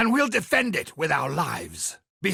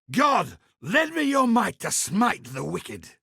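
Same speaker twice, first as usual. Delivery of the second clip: shouted call for divine might; battle prayer shout; 2 semitones higher than usual. Acted. Templar calling on God before striking, shouted. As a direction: call down God's strength on the enemy.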